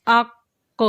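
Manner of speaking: اق said with an echoing bounced q; qalqala bounce. Shown as a demonstration. Teacher demonstrates qalqala to students: bounced q. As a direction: end اق with a jolting release on the q. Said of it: "حروف قلقلہ میں جنبش کیسے پیدا ہوئی".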